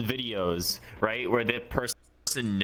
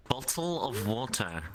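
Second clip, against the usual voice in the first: "Bottle of water" slowly, in a put-on accent; careful accent demo on "Bottle of water"; slower than usual. Shown as a demonstration. Showing a friend how they say it, put-on accent. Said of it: "Listen to this".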